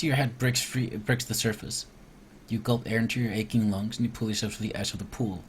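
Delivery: steady storybook narration, falling at line ends; story narration. Acted. Player reading the cave swim to viewers, narrating. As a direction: read the adventure text aloud evenly. Reads the game's scripted event aloud.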